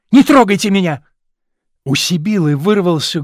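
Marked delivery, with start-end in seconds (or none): 0.1-1.0 louder angry cry, pushing her off; shout. A narrator's reading. Young man shoving the kneeling actress away, shouting. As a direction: bark it as you shove her away. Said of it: "крикнул".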